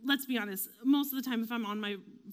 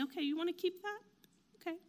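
softer, higher, accepting question; patient; 7 semitones higher, 5 dB quieter, faster than usual. Acted. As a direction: play the patient psychologist, letting it go. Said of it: "they're so patient".

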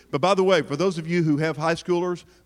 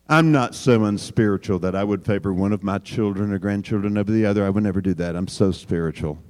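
much lower, mocking holier-than-thou voice; mock pious; 9 semitones lower than usual. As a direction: lampoon the self-righteous parent. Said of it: "some of you are looking at me".

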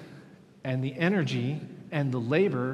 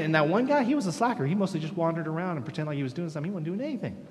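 indignant whining complaint; 5 semitones higher, 7 dB louder than usual. Retold or imitated. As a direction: play the aggrieved worker who feels cheated, building to a cry. Voicing resentful workers' complaint.

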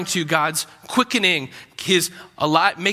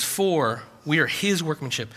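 "his" picked out in a softer restatement; stress on his; 4 semitones lower, 5 dB quieter than usual. Shown as a demonstration. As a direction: lean on "his", then let "workmanship" drop. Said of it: "he puts emphasis on the word his".

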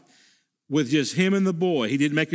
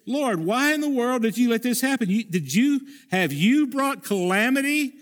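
pleading cry; 5 semitones higher than usual. Acted. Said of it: "He says".

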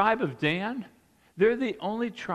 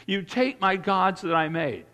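whiny voice. Shown as a demonstration. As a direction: whine it like a sulking child. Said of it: "like, in a whiny voice".

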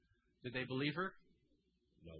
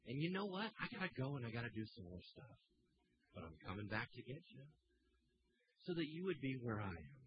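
calming voice; 3 dB quieter than usual. Acted. Jesus reassuring the weeping Mary, soft and calming. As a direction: soothe her like a frightened friend. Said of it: "with that same calming voice".

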